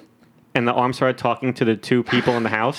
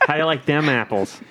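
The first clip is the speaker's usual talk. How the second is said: put-on Boston accent. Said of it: "hates the Boston accent so much".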